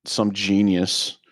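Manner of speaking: slow, dryly sarcastic. Real, not acted. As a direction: say it slowly with sarcasm. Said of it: "I say that sarcastically".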